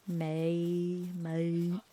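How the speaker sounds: a broad Australian "mate" said like "my"; a rough bogan "mate"; a broad, clipped Aussie "mate". Shown as a demonstration. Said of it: "in a bogan way".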